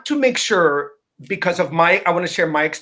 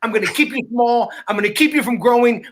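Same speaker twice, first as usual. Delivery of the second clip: higher, lightly voiced gloating saboteur; a hint of a cheerful bully; openly menacing ego; 4 semitones higher than usual. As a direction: announce mock threats in a raised pitch. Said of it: "really spoke to us in its true way".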